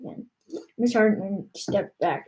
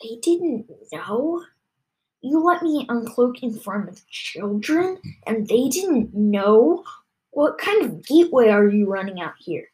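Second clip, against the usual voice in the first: Miss Hartman's voice; 4 dB louder than usual. Acted. The reptile scolding Tom in front of children, indignant. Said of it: "said in Miss Hartman's voice".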